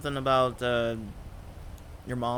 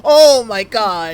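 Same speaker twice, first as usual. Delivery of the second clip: loud drawn-out oh my God; 8 semitones higher, 16 dB louder, much slower than usual. Real, not acted. Shocked reaction to scared friend.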